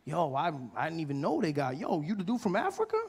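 imitating a thrilled guy, with a laugh; excited comedian. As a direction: gush like you just met a celebrity. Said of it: "He's like".

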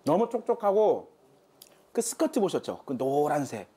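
talking while chewing; words muffled by food; mouth full. Real, not acted. Seen 2: holds bitten burger, cheeks puffed, lips working after bite.

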